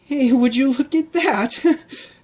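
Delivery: put-on high, brisk girl calming a crowd; high girl's voice calming the pigs; girl Pancake voice. Pancake voice, nervous.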